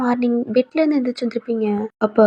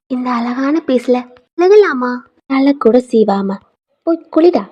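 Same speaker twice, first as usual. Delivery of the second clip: fond scolding; 4 dB louder, slower than usual. Acted. Grandmother scolds fondly.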